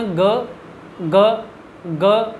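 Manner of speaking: ग repeated gently, one at a time; three light takes of ग; gentle ga drill. Shown as a demonstration. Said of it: "उसको हल्का सा धीरे करके बोलना".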